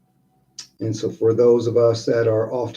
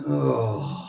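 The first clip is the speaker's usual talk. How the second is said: exhaling sigh; 5 dB quieter than usual. Shown as a demonstration.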